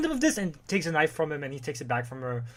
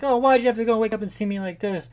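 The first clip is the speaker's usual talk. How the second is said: anguished lament; 9 semitones higher, 6 dB louder than usual. Retold or imitated. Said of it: "she's just like".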